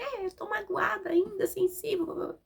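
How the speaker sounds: lightly voiced, sulky child; mimicking her hurt son. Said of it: "Ele falou assim".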